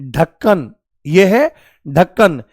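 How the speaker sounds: ढक्कन opening on a firm aspirated stop; hard ढ in ढक्कन. Shown as a demonstration. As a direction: say ढक्कन slowly with a hard, breathy-released ढ. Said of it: "ड और ढ में ये अंतर". (ढक्कन में कड़क महाप्राण ढ, धीरे)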